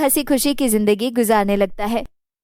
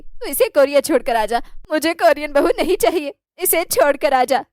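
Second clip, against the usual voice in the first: mildly furious saas laying down the law; mother demands her son leave the Korean wife; angry mother-in-law. Acted.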